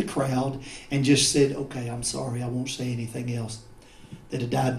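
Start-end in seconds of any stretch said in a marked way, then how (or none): 1.5-3.6 meek. Acted. Imagined meek giving in.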